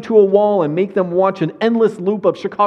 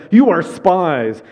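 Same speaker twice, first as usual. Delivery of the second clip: slow, louder "You are spies"; harsh accusation; 4 dB louder, much slower than usual. Acted. Joseph accusing his brothers of spying, slow and harsh. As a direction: accuse them, weighing each word. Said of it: "spoke harshly to them".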